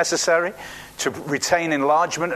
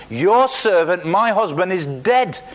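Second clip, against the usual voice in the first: loud, higher, emphatic protest; crying out; 3 semitones higher, 4 dB louder, slower than usual. Acted. Widow telling Elisha of her dead husband, loud accusing cry. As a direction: cry it out, hitting each phrase hard. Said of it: "cried out to Elisha".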